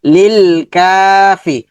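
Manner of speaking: লিল কাফি with a held কা and brief ফি; long কা, short ফি. Shown as a demonstration. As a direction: stretch কা then say ফি short. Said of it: "ফিটা হরকত দ্রুত হবে".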